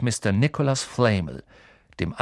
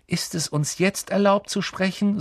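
peeved, higher-pitched question; grumpy; 9 semitones higher than usual. A narrator's reading. Ron to Hermine after being hushed, grumpy. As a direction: grumble in a raised pitch. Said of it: "sagte Ron brummig".

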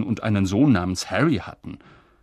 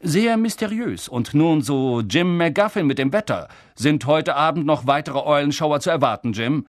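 amused newsreader; 2 semitones higher, 4 dB louder than usual. Acted. Newsreader hands over, amused.

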